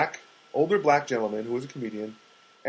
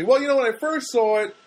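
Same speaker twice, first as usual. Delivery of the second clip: imitating friend; 7 semitones higher than usual. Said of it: "And then he said to me".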